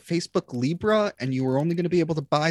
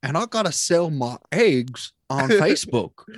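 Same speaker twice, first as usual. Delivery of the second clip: mock country farmer. Joining the farmer bit.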